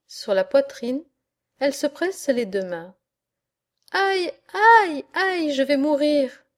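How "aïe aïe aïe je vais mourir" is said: high plaintive cries of distress; acted high-pitched whimpering complaint; tearful wailing. A narrator's reading. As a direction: wail it as if ticklish and desperate. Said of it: "pleure-t-elle".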